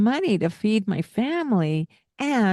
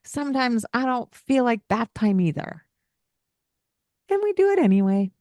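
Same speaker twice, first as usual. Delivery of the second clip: higher, gentle understanding voice; soft empathetic parent; 5 semitones higher than usual. Shown as a demonstration. Parent gently agreeing with the child, then insisting bath happens. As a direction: agree kindly, then hold the line. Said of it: "And you can say".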